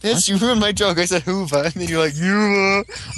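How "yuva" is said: obnoxious mock. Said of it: "all obnoxious over me".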